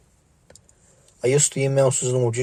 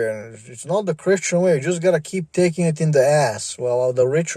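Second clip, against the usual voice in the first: hammed-up holier-than-thou scold; mocking preachy voice; 3 semitones higher than usual. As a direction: parody a smug moralizer telling you to submit. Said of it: "mocking preachy moralizer".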